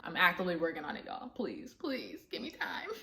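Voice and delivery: a quiet, breaking please for patience; tearful plea. Real, not acted. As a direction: plead through tears. Pleading while working on herself.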